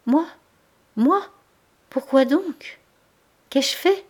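high, halting gasps; stunned, words cut short; broken disbelief. A narrator's reading. Denise accused, stammering in shock. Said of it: "des mots entrecoupés".

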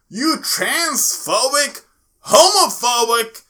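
slow, rising to a loud angry shout. Real, not acted. Host ranting at homophobic fans, building to a shout. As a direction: spit each insult out harder.

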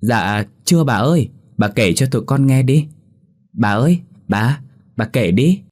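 put-on children begging grandma for a ghost story; eager kids chorus. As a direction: beg grandma all together. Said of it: "Cả lũ đồng thanh nói".

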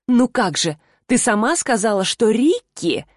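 lightly parodying the rival's nasty tone; a hint of a sneering copycat voice; mocking imitation. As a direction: mimic her voice to ridicule her. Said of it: "попыталась передразнить отвратительный тон и голос Ангель".

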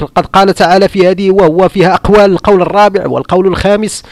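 parodying a jurist listing his points; mock scholarly recitation. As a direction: rattle off the rulings like a pompous scholar. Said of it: "حتى هو كيقول لك".

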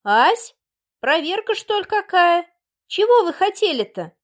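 a village mother eyeing the city visitors with suspicion; a touch of wary peasant dialect; wary village woman. Acted.

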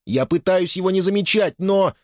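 high-pitched youth defending himself; pleading protest. A narrator's reading. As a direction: protest high until cut off. Son protests to his mother. (оправдываться перед матерью, высоким голосом)

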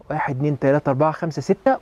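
even, quick count to six; breath-hold count. Shown as a demonstration. Coach counting a listener's breath hold, even count. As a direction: count briskly and evenly through a held breath. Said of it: "تكتم جوه ستة".

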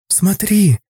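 put-on high excited little girl's cry; вскрик девочки. A narrator's reading. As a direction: call out, thrilled. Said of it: "Вера вскрикнула". (восторженный детский вскрик)

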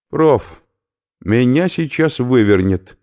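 he is about to throw up; queasy skinhead. Acted. Oberführer warns professor he will vomit, loud and gruff.

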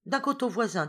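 lightly voiced knowing reply; strange smiling old woman. A narrator's reading. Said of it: "avec un sourire étrange".

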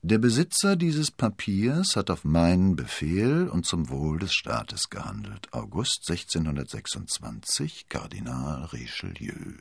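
measured document reading, sinking at the end; reading aloud. A narrator's reading. Cardinal reads his own written warrant, reading aloud. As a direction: read out the note, dropping to the signature. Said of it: "setzte die Brille auf und las".

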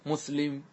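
مسلم with only a faint hint of the final u; half vowel rawm. Shown as a demonstration. Teacher demonstrates rawm to students, a faint half vowel. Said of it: "تأتي بنصف الحركة".

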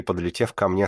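plain reading voice

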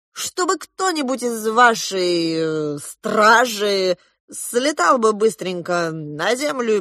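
lightly voiced pompous uncle, slow; ingratiating, drawn-out plea; fawning uncle Yura. A narrator's reading. Uncle begging the princess for cigars, slow and fawning. Uncle Yura's pleading speech.

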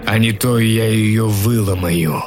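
threatening wolf voice. Acted. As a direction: menace like a wolf. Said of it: "прорычал волк".

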